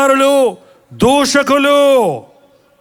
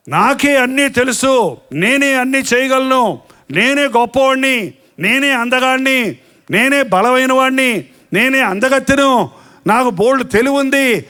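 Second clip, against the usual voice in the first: boastful proud man. Retold or imitated. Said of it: "అని మనుషుడు ఇవాళ".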